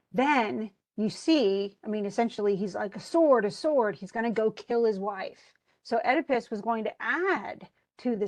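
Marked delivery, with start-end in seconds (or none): 3.0-4.0 furious cry. Retold or imitated. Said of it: "so he's furious".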